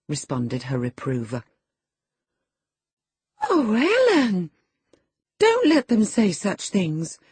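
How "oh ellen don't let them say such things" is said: put-on high, loud girlish plea; great distress. A narrator's reading. Girl begging her nurse to stop them, distressed high voice. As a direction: wail to the nurse for help. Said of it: "she pursued in great trouble".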